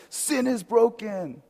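slow, high proclamation; Jesus in a skit. Retold or imitated.

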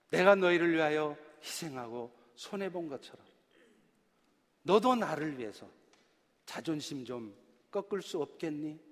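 a hint of Jesus's gentle plea. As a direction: ask tenderly, as Jesus inviting sacrifice. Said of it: "라고 물으십니다".

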